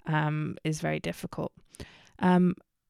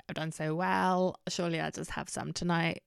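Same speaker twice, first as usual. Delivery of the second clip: tempted inner voice; 7 dB quieter than usual. Retold or imitated. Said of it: "I was like".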